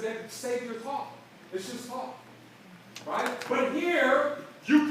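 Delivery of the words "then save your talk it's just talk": quiet put-down. Retold or imitated. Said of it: "I said".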